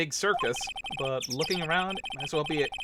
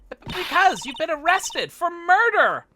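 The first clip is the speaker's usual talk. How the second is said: higher and louder, blurting the news; alarmed outburst; 12 semitones higher, 7 dB louder than usual. Acted. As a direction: shout it out in alarm.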